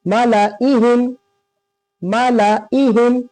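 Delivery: "मालाइहिम" with quick la, then long ii; don't hold la in "मालाइहिम", go on to ii; unstretched reading. Shown as a demonstration. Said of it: "जल्दी पढ़ना है".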